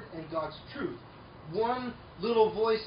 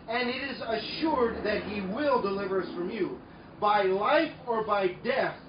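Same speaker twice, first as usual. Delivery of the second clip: fiery preaching. Real, not acted. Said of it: "preaching climax".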